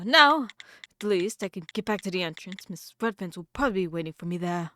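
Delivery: put-on mild posh British accent; attempted British accent. Lost newcomer heading back to entrance, attempted British accent. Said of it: "terrible British accent".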